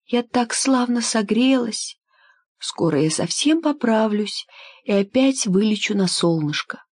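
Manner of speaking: lightly voiced weak swallow. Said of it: "сказала больная ласточка".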